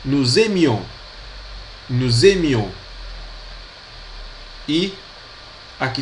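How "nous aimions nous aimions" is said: nous aimions said noo-zeh-MYOH; nous aimions with s linked, noo-zeh-MYOH; model pronunciation. Shown as a demonstration. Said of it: "Também temos aqui".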